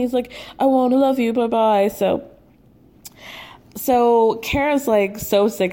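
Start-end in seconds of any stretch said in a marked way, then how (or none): 0.6-1.9 mock Williams. Mimicking Williams hanging up.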